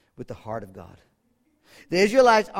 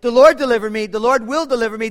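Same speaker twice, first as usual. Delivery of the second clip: ordinary talk, nothing marked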